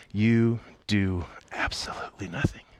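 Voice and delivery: hushed emphasis. Real, not acted. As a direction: drop into a near whisper. Landing the rule of rest.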